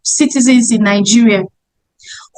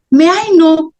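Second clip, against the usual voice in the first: polite asking; 3 semitones higher than usual. Acted. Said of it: "with a smile".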